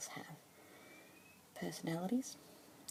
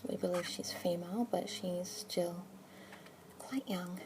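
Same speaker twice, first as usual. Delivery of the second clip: asmr whisper. Acted. Keeper introducing a budgie to a listener, whispered. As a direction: whisper gently, close to the mic.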